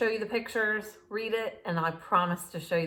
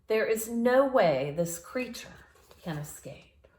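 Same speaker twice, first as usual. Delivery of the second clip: assured showman voice; calm the crowd confidently; confident claim; 3 semitones higher, 4 dB louder than usual. Acted. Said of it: "Doctor Varmint told the crowd".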